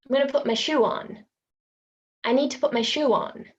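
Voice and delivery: "shoe on" as shoe-won; intrusive w. Shown as a demonstration. Teacher demonstrating intrusive w. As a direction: slip a w in after shoe. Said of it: "secret W".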